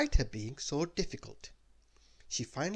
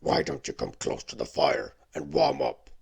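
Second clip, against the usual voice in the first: louder beast voice, gently inviting; gentle beast; 7 dB louder than usual. Acted. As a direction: coax her to the fire. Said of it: "very, very gently".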